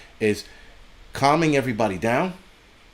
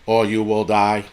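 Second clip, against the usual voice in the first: flat monotone robot delivery, mocking; 3 semitones lower than usual. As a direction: drone it like a boring robot. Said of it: "sound like a fucking robot".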